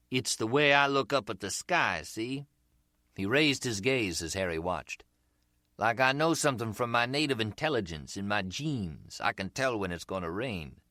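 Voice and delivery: grin through it, busted and enjoying it; American street seller. Acted. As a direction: seller to Harry, cheerfully admitting the fake accent. Umbrella seller voiced.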